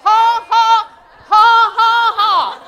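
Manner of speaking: loud, high, deliberate ha ha; a put-on hearty laugh; demonstrated laugh. Shown as a demonstration. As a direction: laugh it off on purpose. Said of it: "Laugh at it".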